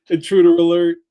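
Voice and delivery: loud alarm call; alarm shout. Pretend. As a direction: call it out like a siren. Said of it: "damn it, I did it again".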